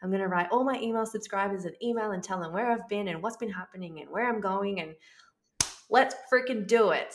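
quick, rising to a loud finish; pumped-up promise to come back online; fired-up resolve. Retold or imitated. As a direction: psych yourself up, then burst out on the last line. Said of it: "And I was like".

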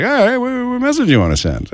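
a hint of a polite assistant; Alexa voice. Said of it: "then she's like".

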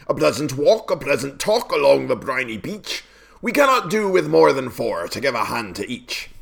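beseeching walrus. A narrator's reading. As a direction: sweet-talk them as the walrus. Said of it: "the walrus did beseech".

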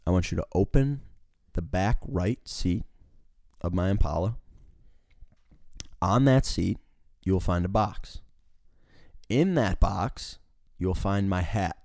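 imitating a boss with deliberate pauses between steps; retold measured orders. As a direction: dole out instructions piece by piece. Imitating boss giving fussy step-by-step orders.

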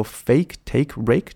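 FAKE, TAKE, RAKE run off quickly with long A. Shown as a demonstration. Teacher showing fast speech stays correct, quick run. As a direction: rattle off FAKE, TAKE, RAKE without stretching. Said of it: "你念快的时候".

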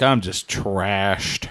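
put-on slow, slurred drunk voice. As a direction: drag it out like you're wasted. Drunk-sounding quote.

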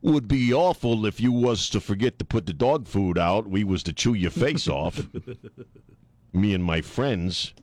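lightly voiced mobster making a veiled threat; a hint of mock gangster menace; mafia raccoon. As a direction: play a raccoon as a mafia heavy. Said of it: "Little mafia raccoons".

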